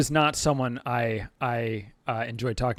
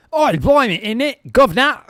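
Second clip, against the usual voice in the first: hammed-up Cockney, much higher and louder; cartoon London street Cockney accent; joke Cockney accent; 11 semitones higher, 13 dB louder than usual. Streamer mocks the usual joke Cockney accent. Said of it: "obviously that's the one that I typically do".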